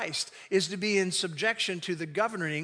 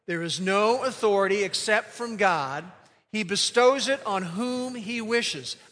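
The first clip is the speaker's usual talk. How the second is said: recited out loud. Shown as a demonstration. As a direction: lead the church in reading it aloud together. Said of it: "we're gonna say it out loud".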